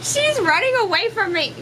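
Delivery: high giggly talk through laughter; delighted laughing chatter. Real, not acted. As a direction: laugh as the cat flees the snow. Laughing through snow video.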